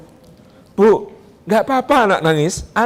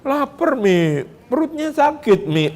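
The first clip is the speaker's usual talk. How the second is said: put-on child whining; 5 semitones higher, slower than usual. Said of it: "merasa lapar".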